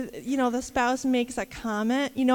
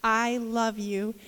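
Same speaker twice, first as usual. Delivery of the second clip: sincere; 3 semitones lower, slower than usual. Retold or imitated. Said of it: "with the most sincerity I've ever heard in his voice".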